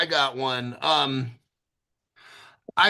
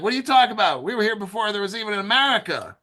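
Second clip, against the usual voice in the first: quick, incredulous comeback on their behalf; indignant retort; 4 semitones higher, much faster than usual. Retold or imitated. Host voicing the English answering Americans, mock indignant.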